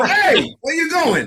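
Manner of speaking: put-on New York accent. Speaker who grew up in New York compares it with Fargo, New York accent. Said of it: "Over there in Fargo, they go".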